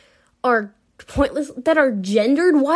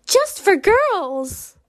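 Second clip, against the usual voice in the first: sarcastic slow read; 9 semitones higher, 3 dB louder, much slower than usual. Retold or imitated. Reading label sarcastically, slow.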